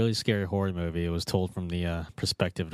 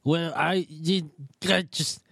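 higher, louder, slow flustered stammer; a villain losing his nerve mid-sentence; nervous stammer; 8 semitones higher, 3 dB louder than usual. Acted. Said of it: "He just became more nervous".

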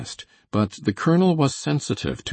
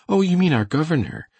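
high-pitched exclamation of understanding; amused realisation; 10 semitones higher, 4 dB louder than usual. A narrator's reading. Blair grasps the colonel's meaning, amused realisation. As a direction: let it dawn, pitch high then falling.

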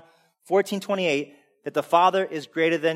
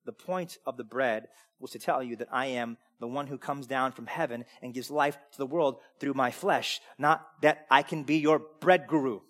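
calm Jesus voice; 3 semitones lower than usual. Retold or imitated. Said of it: "And he's like".

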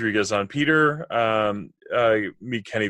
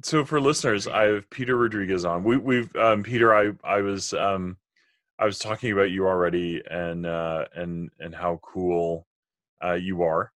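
muffled underwater mic sound. Real, not acted. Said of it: "I sound like I'm underwater in this".

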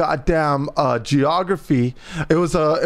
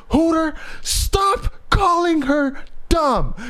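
grandma scolding; 12 semitones higher, slower than usual. Retold or imitated. Grandmother scolding over FaceTime.

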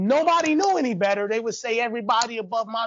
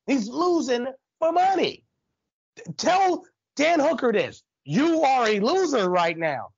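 getting excited; 6 semitones higher than usual. Real, not acted. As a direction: get fired up, pressing each point. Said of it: "I'm getting a little excited".

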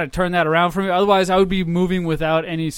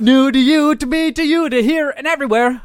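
excited; 7 semitones higher, 4 dB louder than usual. Acted. Hyping new merch.

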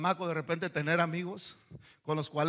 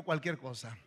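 cualquier cosa dropped low and soft for the church to repeat; low, soft prompt of "cualquier cosa"; call-and-response cue; 7 semitones lower, 6 dB quieter than usual. Shown as a demonstration. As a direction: say "cualquier cosa" quietly, inviting the congregation to echo it. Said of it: "Diga conmigo".

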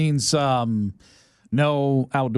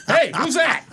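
high, loud put-on voice of a startled stranger; mock startled shopper; 10 semitones higher, 3 dB louder than usual. Shopper spotting a weird guy in the aisle, high and startled. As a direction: pitch it up as a wary passer-by. Imitating shoppers noticing him.

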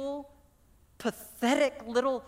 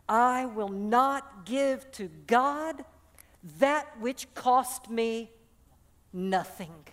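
each word slow and weighty; slow solemn vow; much slower than usual. Acted. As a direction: lay it down slowly, like an oath. David refuses the free land.

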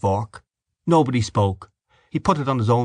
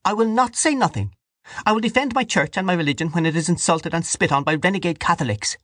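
high, forceful declaration; high-pitched righteous outrage; loud defiance; 9 semitones higher than usual. A narrator's reading. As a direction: protest hotly in a high voice. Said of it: "Dante said loudly".

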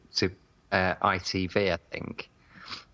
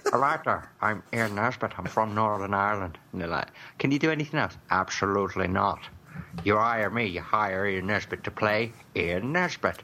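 mock Ian Nesbitt. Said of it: "He can only play Ian Nesbitt".

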